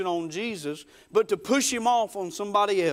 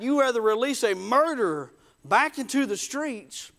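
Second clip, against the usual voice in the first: raised, exasperated questioning; confused protest; 4 semitones higher than usual. Retold or imitated. Pilate questioning the crowd about Jesus, confused protest. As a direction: plead with them in bewilderment. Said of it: "He was confused".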